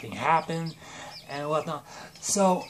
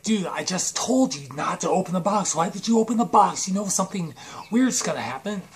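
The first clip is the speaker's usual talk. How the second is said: acted exasperated scolding, raised pitch; mildly hammed-up telling-off; mock exasperation; 3 semitones higher than usual. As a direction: scold a friend in rising, quickening exasperation. Friend scolds him for opening box.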